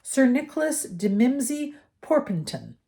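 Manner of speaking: lingering over his long hunger; lightly voiced old ghost. A narrator's reading. The ghost introduces himself.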